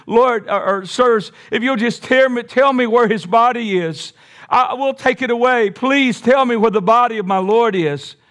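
acted-out pleading of a grieving follower; urgent pleading. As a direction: beg them, stumbling over the first words. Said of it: "She loved him so much".

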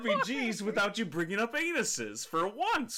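mock-outraged telling-off; exasperated scolding. Real, not acted. Mock-scolding co-host for giggling.

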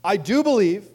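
father crying out to Jesus. Acted. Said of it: "the father of the boy cries out".

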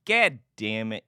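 "God damn it" with God flattened to "gad"; grandmother's cussing. Retold or imitated. Imitating grandmother's cussing, "God damn it" with a "gad" vowel. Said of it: "she used to say".

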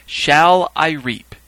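very slow, loud, high question; calling out. Acted. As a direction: draw out each word to the crowd. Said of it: "then a third time".

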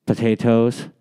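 a hint of hobbit-style accent on potatoes; lightly put-on accent, Lord of the Rings style. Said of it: "supposed to be an Irish accent".

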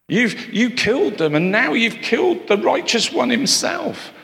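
a rising, accusing prophet's charge; Stephen's rebuke. Acted. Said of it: "but saying".

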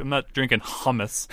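put-on overdone European-sounding accent; throaty h in "hummus", mock accent. Player joking that his accent slipped, overdone foreign accent. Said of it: "that's too Europe".

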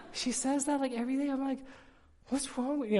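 high, loud, laughing through the words; can't stop laughing at her. Real, not acted. Father telling the church about his daughter, laughing.

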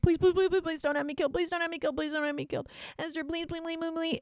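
grovel for your life; desperate begging. Acted. Haman begs Esther to spare him, high and desperate. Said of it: "Haman throws himself on Esther and is like".

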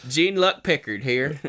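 "Jean-Luc" as Gene-Luck, loud and slow; anglicized mispronunciation. Acted. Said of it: "Do you want me to be John Luke then?".

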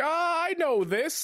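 high, loud, drawn-out outburst; mock excited recognition. Imagined older viewer spotting a reference, mock excited cry. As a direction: exaggerate a viewer thrilled to spot a reference. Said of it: "was sitting there being like".

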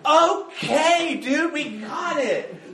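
mock exasperated listener. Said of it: "You're like".

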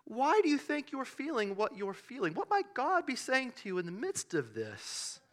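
hammed-up soothing session leader; spiritual director. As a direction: gently guide someone into reflection. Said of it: "leading a little spiritual, uh, direction session".

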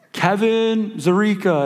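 mock award announcer drawing out the name; announcing the winner. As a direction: draw out the winner's name like a big reveal. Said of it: "the recipient of this year's".

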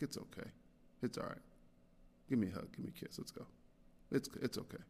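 soft, hushed comforting dad; retold soothing of a child, very softly; gentle reassurance. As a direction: quietly console a little one. Dad comforting his apologetic daughter.

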